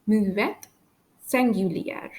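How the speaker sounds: French "Muet" and "singulier" with no S sound at the end; silent final S. Shown as a demonstration. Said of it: "I don't pronounce the letter S".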